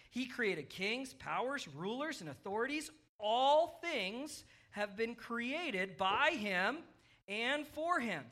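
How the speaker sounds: slow, deliberate Bible reading; scripture reading. Acted. Preacher reading Colossians to kids following along, measured scripture reading. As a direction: read the verse out slowly, phrase by phrase. Reads scripture aloud to children.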